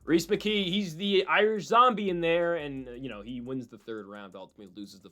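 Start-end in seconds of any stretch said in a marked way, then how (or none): 0.0-2.5 slower, higher mock British commentator; second British accent try. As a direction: give the British accent another slow go. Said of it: "That's not a British accent".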